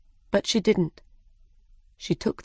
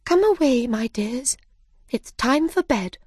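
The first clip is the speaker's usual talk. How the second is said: mother bird calling; 6 semitones higher than usual. Acted. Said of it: "called to her children".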